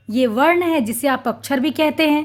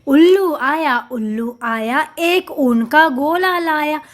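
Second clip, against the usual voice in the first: lilting sing-song reading of a rhyme; rhythmic poem recitation. Shown as a demonstration. Teacher reciting the poem to children in rhythm. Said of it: "लय के साथ पढ़ें".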